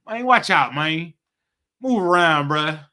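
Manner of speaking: loud, pushy street talk; roughneck voice. Retold or imitated. Playing the roughneck the Lord likes, loud and gruff.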